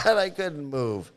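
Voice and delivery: real chuckle running into the words; laughing. Real, not acted. Telling listeners about getting stuck in mud, laughing.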